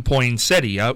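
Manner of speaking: "poinsettia" with both final vowels sounded. Shown as a demonstration. Host argues a point, "poinsettia" said with a full ee-a. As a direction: say "poinsettia" as poin-SET-ee-a. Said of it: "if you pronounce the I A".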